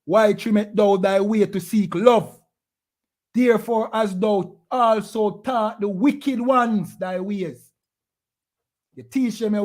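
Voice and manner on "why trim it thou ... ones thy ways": scripture reading. Shown as a demonstration. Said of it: "Let me read it again".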